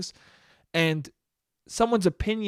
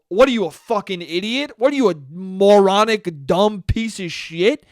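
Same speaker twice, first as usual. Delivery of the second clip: outraged insult; 4 dB louder than usual. Acted. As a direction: lay into them in mock outrage. Acted outrage at a movie opinion.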